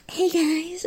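high chirpy "hey guys"; light high mock greeting. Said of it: "him walking in saying".

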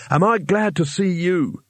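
high, drawn-out relieved call; shouted greeting. A narrator's reading. Lost wizard greeting his friend above, shouting. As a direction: call it up high and slow, glad to see him. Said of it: "shouted the wizard".

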